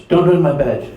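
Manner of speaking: imitated blurred consonants in "Don't hurt my badge"; deaf teacher's speech. Deaf teacher protesting to student, "badge" in imitated blurred speech. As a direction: say "badge" with misshaped sounds, as in the imitation. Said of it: "That's how she talks".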